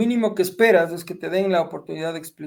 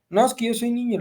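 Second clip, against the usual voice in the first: lightly voiced child, higher pitch; five-year-old nephew; 6 semitones higher than usual. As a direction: imitate a small boy protesting. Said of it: "mi sobrino de cinco años".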